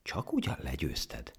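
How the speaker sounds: slow, unraised sceptical question; doubting. Acted. Rabbit hearing the monkey's tale, doubtful. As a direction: query it with quiet disbelief. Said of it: "a nyúl hitetlenkedve csóválta a fejét".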